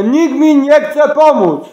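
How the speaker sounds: high, slow cry for help. Real, not acted. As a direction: raise the voice and stretch the plea. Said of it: "i ja krzyczę". (przeciągłe wołanie o pomoc)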